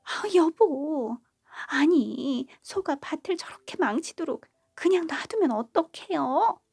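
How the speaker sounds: glare and let him have it; glaring at husband. Acted. Daughter-in-law blaming her husband for the ruined field, loud high complaint. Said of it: "며느리는 남편을 째려보며 화를 했어요".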